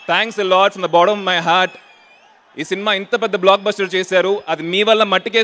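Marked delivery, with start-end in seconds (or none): 0.1-1.7 slow, sincere, every word weighed; heartfelt slow thanks. Real, not acted. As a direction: say it slowly from the heart. Repeats thanks, slowly and earnestly.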